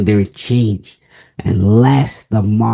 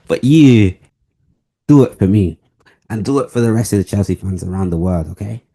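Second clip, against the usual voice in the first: put-on British accent; 3 dB louder, faster than usual. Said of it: "You see how I'm in the British accent?".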